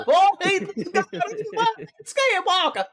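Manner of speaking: high, loud hillbilly voice, rushed then dragged out; hillbilly impression. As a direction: echo the punchline as a hillbilly. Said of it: "hillbilly impression".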